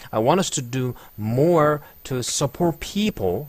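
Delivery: very slow, stressing want; drawn-out teaching read, leaning on want; slow shadowing model read; slow demo reading. Shown as a demonstration. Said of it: "people 살짝 끊고".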